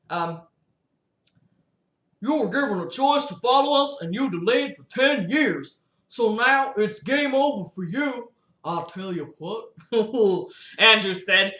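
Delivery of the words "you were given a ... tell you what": quick, higher rushed villain voice; hurried higher voice for Fabian; Fabian's voice. Acted. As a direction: rattle it off fast and high. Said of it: "What's Fabian's voice".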